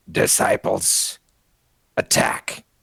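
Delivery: rough, rasping, creaky voice. Voicing a figure who orders disciples to attack: raspy voice. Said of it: "with a raspy voice utters".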